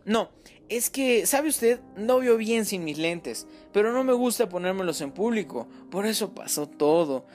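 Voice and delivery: a mother near tears, defending herself; tearful mother. Acted. Mother explaining to the detective, high and close to tears. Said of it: "cuando su esposa comenzó a llorar".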